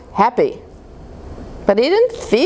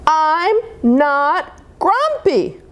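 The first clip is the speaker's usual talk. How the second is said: mild mock shout; 7 semitones higher, much slower than usual. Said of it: "shouted Jim".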